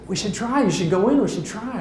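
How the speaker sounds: coaxing wife. Retold or imitated. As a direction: urge him on, lightly mimicking the wife. Wife urging him, acted out.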